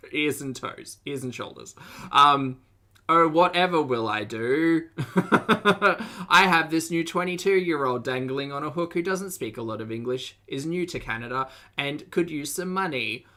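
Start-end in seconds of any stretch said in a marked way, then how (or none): 3.1-13.3 mock paraphrase. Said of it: "That's me paraphrasing her words".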